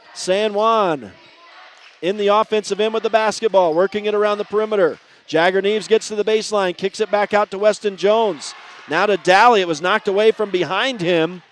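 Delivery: energetic running game call; live play-by-play. Real, not acted. Announcer following a steal and foul, live play-by-play. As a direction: keep up with the ball, building on the steal.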